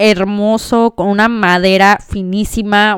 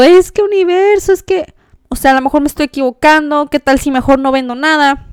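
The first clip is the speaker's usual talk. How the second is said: higher-pitched, mildly pleading self-quote; retold tearful doubt; 5 semitones higher than usual. Woman retelling her doubts to the universe, mild tearful pleading. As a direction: lightly act out pleading while upset. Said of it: "estaba yo llorando, llorando, llorando".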